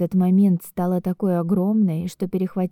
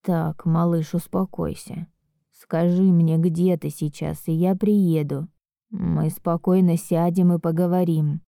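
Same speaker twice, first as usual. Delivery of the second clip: worried. Acted. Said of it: "взволнованно отвечает он".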